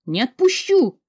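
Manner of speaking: high, loud refusal; desperate shout. Acted. Heroine refuses to leave, shouting. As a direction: shout it as you fight to stay. Heroine resists being dragged.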